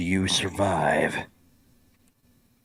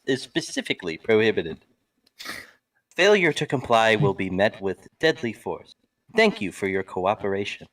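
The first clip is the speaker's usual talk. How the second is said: flat echoey pa page. Pretend. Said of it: "intercom voice".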